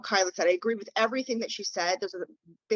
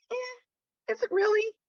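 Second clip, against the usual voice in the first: sceptical; 13 semitones higher, slower than usual. Real, not acted. Doubting the young lawyer's plan.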